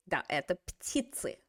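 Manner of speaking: soft whisper; whispered aside. Real, not acted. Teacher whispers an aside after the bird sounds. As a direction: whisper it to yourself.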